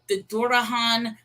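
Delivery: Durahan with an R, DOO-ruh-hahn; variant pronunciation. Shown as a demonstration. Host lists another demon name variant, Durahan as DOO-ruh-hahn. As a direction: swap the L for R in Durahan. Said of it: "pronunciations and depictions of this".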